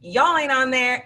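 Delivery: a retold kid's excited boast; excited kid bragging. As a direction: crow about the A to the class. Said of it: "excited to make my boards".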